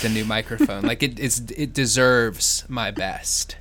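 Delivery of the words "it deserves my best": carefully articulated. Shown as a demonstration. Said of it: "I want to articulate a bit more".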